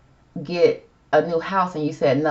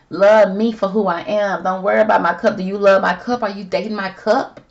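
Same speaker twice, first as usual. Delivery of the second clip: louder, higher, emphatic mock protest; acted indignant plea; 3 semitones higher, 4 dB louder than usual. Voicing Ben's card as defiant plea.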